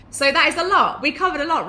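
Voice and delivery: bright and loud, pumped up; rally the viewers with big energy; excited wrap-up. Real, not acted. To her viewers, wrapping up the tips, excited and loud.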